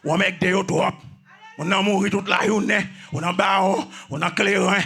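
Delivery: full-force sermon delivery, punching repeated phrases; forceful preaching. Real, not acted. Preacher warning listeners about idols, forceful preaching. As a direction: preach it with driving insistence.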